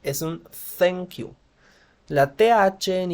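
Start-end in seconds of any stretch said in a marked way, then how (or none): 0.8-1.3 "thank you" starting with th like Castilian Z; "thank you" opening on a soft lisped th; correct soft th. Shown as a demonstration. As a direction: say "thank you" with the tongue between the teeth. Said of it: "suena más o menos como una Z".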